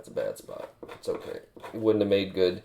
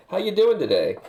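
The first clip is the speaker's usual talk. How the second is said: bright high chirpy greeting, louder; cheery greeting; 10 semitones higher, 5 dB louder than usual. Retold or imitated. Greeting somebody in passing with a bright chirpy hello.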